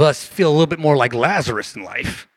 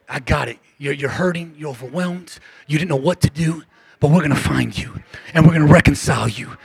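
tender reassurance. Pretend. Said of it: "What if we say".

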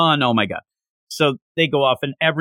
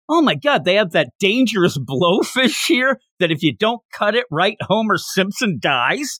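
retold amazement, pitched higher; mock impressed; 5 semitones higher than usual. Diner spotting dangerous blowfish on the menu, mock impressed. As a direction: gush lightly over a rare find. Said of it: "Lloyd's all impressed".

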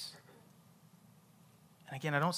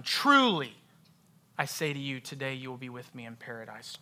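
TRULY punched alone at the start; stress on TRULY. Shown as a demonstration. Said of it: "just emphasize a different word".

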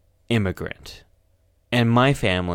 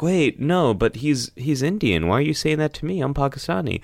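higher, mildly baffled objection; lightly puzzled, pitched-up self-defense; retold confused protest; 5 semitones higher, faster than usual. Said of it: "then I was like".

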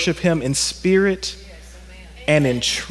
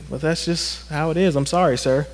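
apologetic; 6 dB quieter than usual. Retold or imitated. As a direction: back off quietly with a polite shrug. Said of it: "he was just like".

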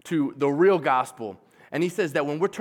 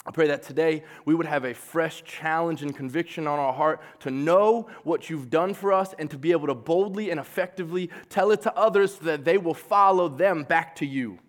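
prayer. Acted. Closing prayer.

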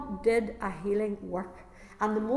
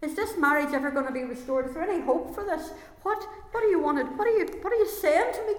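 desperate prayer; 5 semitones higher than usual. Retold or imitated. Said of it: "I'm crying out to God".

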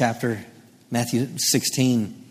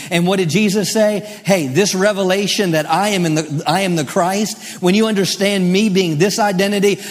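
emphatic, driving sermon delivery; impassioned pulpit proclamation; fervent preaching; 6 semitones higher, 4 dB louder than usual. Real, not acted. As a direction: declare it boldly to the congregation. Preaches with mounting force.

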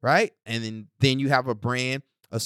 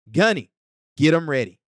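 loud command; 5 dB louder than usual. Acted. Host calls his drill sergeant.

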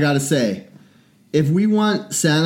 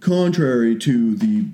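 pompous politician speak; 2 semitones lower, slower than usual. Retold or imitated. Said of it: "big word adulty talk".

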